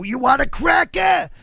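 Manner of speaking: high, loud, slow squawking parrot; hammed-up parrot squawk. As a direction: Gilbert Gottfried as a parrot in purgatory, shrill mock squawk. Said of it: "he's talking, like, as the parrot".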